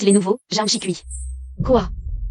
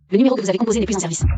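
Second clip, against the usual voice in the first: phone recording; much faster than usual. Acted. Phone line dead message.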